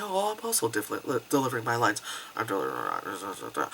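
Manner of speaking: low, soft, bored mumbling imitation; phoned-in delivery. Second actor just delivering lines, phoned-in delivery. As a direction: imitate an actor trailing off without effort. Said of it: "she phoned it in".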